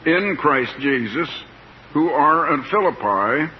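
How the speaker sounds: slow, measured reading from the Bible; scripture reading. Acted. Preacher reading the letter's opening to listeners, slow scripture reading. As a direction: read the verse out slowly, lingering between phrases.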